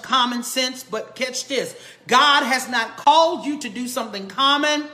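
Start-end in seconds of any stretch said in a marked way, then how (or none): 2.1-4.8 preacher voice. Real, not acted. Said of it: "I feel my preacher voice".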